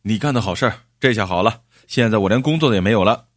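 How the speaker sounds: acted indignant outburst; fuming. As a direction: confront the culprit in rising anger. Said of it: "气冲冲的就去找赵二柱".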